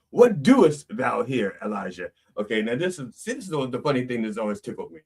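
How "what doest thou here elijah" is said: slow, solemn what doest thou here; corrected solemn King James line, what doest thou here; archaic corrected reading. Acted.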